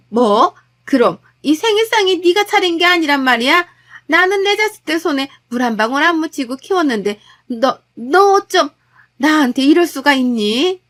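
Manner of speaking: shocked, affronted mother-in-law flaring up; outraged mother-in-law. Acted. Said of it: "엉엉 소리내서 통곡하다시피 우시더라고요". (기가 막힌 시어머니의 격한 외침)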